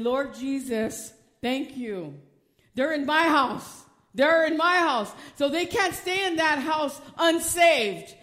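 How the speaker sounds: fervent praise. Retold or imitated. Grandma praising God loudly.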